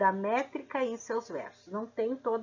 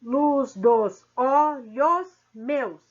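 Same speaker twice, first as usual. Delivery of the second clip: very slow, counting out each poetic syllable; 6 dB louder, much slower than usual. Shown as a demonstration. Teacher counting syllables of a verse, slow and deliberate. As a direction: stretch each syllable like a metronome. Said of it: "Vamos fazer a separação poética ou métrica".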